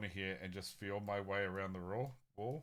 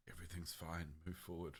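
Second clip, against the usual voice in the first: lowered voice, softly confiding; whisper; 2 semitones lower, 5 dB quieter than usual. Acted. Player leans forward to whisper to a companion, softened voice. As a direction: quietly pass it on, a half-whisper. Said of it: "lean forward and whisper to Vladimir".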